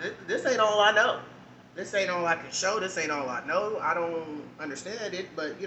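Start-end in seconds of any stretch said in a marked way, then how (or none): 0.0-3.8 defiant, louder. Real, not acted. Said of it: "defiant repeated line".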